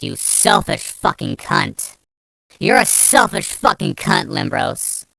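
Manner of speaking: bitter, rising anger at Limbros; real angry rant. Real, not acted. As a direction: lay into her, really furious. Ranting at Limbros who blocked her.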